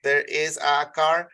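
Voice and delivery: teacher repeats There is a car slowly after fixing her slip; slow corrected model. Shown as a demonstration. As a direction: say it again slowly, getting it right this time. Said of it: "perdón".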